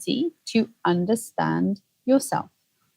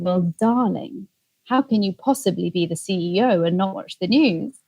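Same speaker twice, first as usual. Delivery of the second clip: very British mother. Retold or imitated. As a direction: lightly imitate a very British mum. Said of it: "in her very British accent".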